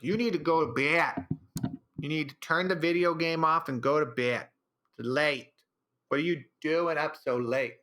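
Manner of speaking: lightly voiced baby talk; mild silly baby talk to girlfriend; stupid pet voice. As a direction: nag her sweetly like a pet. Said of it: "her in that stupid voice".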